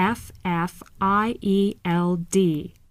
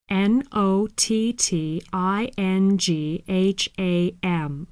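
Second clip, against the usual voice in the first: spelled out letter by letter. Shown as a demonstration. Teacher spelling the word for learners to follow. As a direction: spell each letter clearly. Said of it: "spelling the city".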